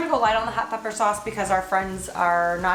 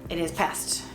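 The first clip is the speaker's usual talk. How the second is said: deadpan low voice; 9 semitones lower, 7 dB quieter than usual. Real, not acted. Deadpan joke about old thyme.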